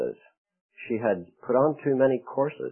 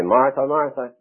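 louder, impatient "Martha, Martha" with a falling scold; 4 semitones higher, 5 dB louder than usual. Shown as a demonstration. How we imagine scolding Martha, louder and impatient. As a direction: snap "Martha, Martha" like an exasperated scolding. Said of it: "The tone of that voice, you want to say".

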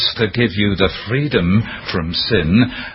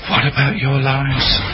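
accusing inner voice; 3 semitones higher than usual. Retold or imitated. Conscience accusing him.

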